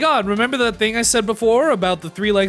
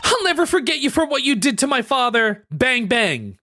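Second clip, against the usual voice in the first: defiant, raised voice; angry young heroine; 5 semitones higher than usual. Acted. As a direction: spit out the accusation. Voices Kay confronting villain.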